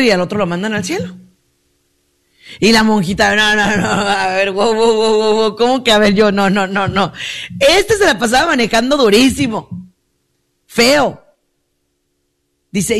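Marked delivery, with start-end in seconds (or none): 3.3-11.2 imitated nun objecting, stammering refusals; mock outrage, halting the verdict with repeated noes; indignant protest. Monjita protesta su sentencia. (protesta indignada de monjita, imitada)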